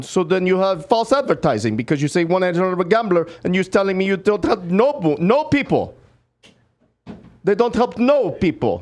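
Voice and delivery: indignant put-on Russian accent; fake Russian accent. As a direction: accuse them of false advertising in a Russian accent. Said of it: "What part of Russia was that accent".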